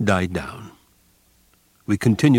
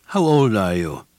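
a touch of fatherly softness over cold authority; attempted paternal tone; 3 dB louder than usual. A narrator's reading. Mengele questions the boy, feigning a paternal tone. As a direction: feign kindness as an officer. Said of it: "in an attempt at a paternal tone of voice".

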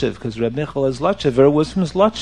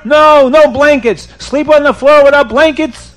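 loud, raised, high scolding; stern order; 8 semitones higher, 6 dB louder than usual. Acted. Rabbi forbids the sinner blankets, stern order. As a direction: forbid it with indignant force.

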